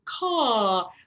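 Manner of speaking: loud open caw like a crow, tongue flat and jaw dropped. Shown as a demonstration. Vocal coach demonstrating the crow sound, loud caw. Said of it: "when I release and open my mouth".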